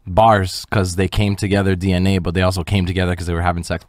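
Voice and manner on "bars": bars drawn out slowly; slow punchline. Shown as a demonstration. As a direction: stretch out the word bars. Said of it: "I'm kidding".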